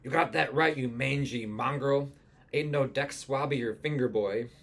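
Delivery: lightly voiced old sea captain; ship's captain. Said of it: "the speaker talks to Rupert now".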